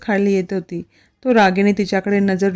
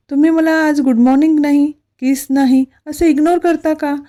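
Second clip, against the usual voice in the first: higher, pouting fake-angry complaint; mock sulky anger; 6 semitones higher than usual. Wife teasing husband for ignoring her, mock anger. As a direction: scold him playfully, pretending to be hurt. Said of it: "पिहू लटकत्या रागातच बोलू लागली".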